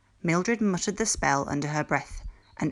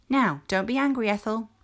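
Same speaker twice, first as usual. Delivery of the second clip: soft; 6 semitones higher than usual. A narrator's reading. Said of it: "Mildred said softly".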